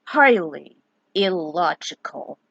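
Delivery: deadpan it like Spock; Spock impression. Vlogger quoting Spock, lightly voiced and slow. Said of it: "As Spock would say".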